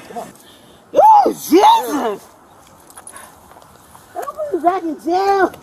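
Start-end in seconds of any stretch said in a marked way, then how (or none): 0.9-2.3 shout. Real, not acted. Arrested woman yelling at officers.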